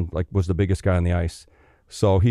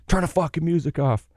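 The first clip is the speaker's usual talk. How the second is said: mock angry coach; 7 semitones higher than usual. Angry coach enters room.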